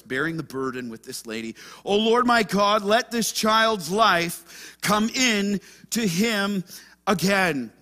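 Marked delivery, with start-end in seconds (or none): 1.8-7.7 slow, pleading cry to God; anguished plea. Acted. Elijah cries to God over the dead child, slow anguished plea. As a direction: stretch the words out like a desperate prayer. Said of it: "hear the anguish in his voice".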